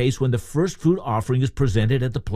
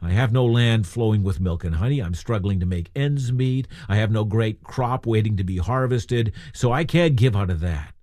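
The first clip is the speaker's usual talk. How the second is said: mild, acted complaint; complaining; 3 semitones lower than usual. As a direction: voice a struggling giver's excuse, understated. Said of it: "we might complain".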